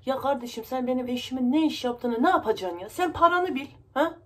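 loud, exasperated telling-off, rising in pitch; indignant retort. Acted. Tenant to agent prying about her husband, indignant.

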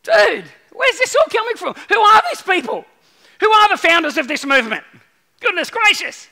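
high, loud disbelief; preacher amazed at the disciples' behaviour. Real, not acted.

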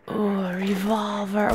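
hushed thrill at the find; whispered delight. Real, not acted. Player finding a revolver, whispering. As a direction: whisper it, unvoiced and secret. Finds weapon.

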